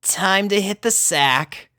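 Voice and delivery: high, breathed-out Rainbow voice; exhaling. A narrator's reading. Rainbow telling the pugs it's bedtime, exhaled. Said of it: "exhaled Rainbow".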